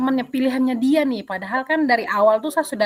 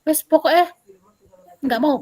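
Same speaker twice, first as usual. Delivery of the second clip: high, loud, stubborn mock shout; retold angry snap; 5 semitones higher, 4 dB louder than usual. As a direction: imitate a kid digging in his heels. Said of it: "Dia bentak saya".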